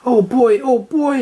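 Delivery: high, excited, dropping to a whisper; little sister thrilled about trick-or-treating, high and eager; excited exclaiming. A narrator's reading. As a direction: squeal it, then whisper it to yourself. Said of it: "exclaimed Sally".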